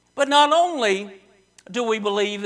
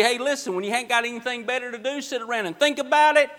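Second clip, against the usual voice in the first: mock casual suggestion; faster than usual. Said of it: "He didn't say".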